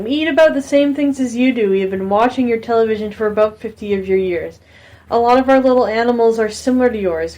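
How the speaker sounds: half-hearted attempt at an alien voice. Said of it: "tried and failed".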